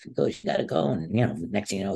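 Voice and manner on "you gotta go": retold yelling. Wrestler retelling his coach's reaction, mild mock yelling. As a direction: imitate an upset coach's protest. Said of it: "he started yelling at me".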